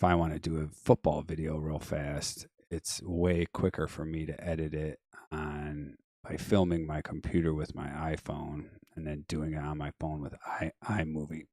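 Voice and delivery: losing voice, a little hoarse. Real, not acted. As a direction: talk through a worn-out voice. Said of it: "I'm kinda losing my voice".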